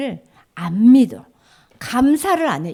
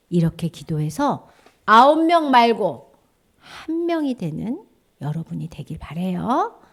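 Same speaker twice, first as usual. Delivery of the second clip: normal talking voice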